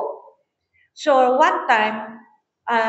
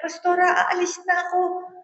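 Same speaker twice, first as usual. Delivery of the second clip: much higher, louder, fast pleading sing-song; pleading member; 10 semitones higher, 4 dB louder, faster than usual. Retold or imitated. Woman begs the pastora not to leave her, high pleading. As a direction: whine it out like a worried churchgoer. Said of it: "Pero sabi niya".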